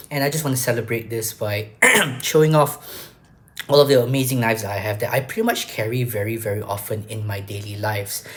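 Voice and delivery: rough, coughy voice; hoarse voice from a cough. Real, not acted. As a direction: sound a bit hoarse from a cold. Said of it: "if my voice sounds a little bit weird, that is because I have a cough".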